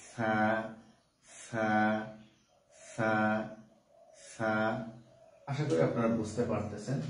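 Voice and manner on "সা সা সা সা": সা said softly, tongue tip at the front teeth; a soft drilled সা, again and again; soft Arabic sa. Shown as a demonstration. Teacher showing the class a soft sa. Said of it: "এটাকে নরম ভাবে আদায় করব".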